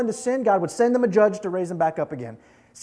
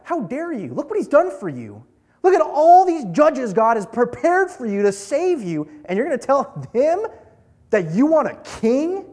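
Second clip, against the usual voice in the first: acted indignant protest, pitched up; worked-up Samuel; 5 semitones higher than usual. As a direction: build from disbelief into incredulous challenge. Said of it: "Samuel is getting all worked up".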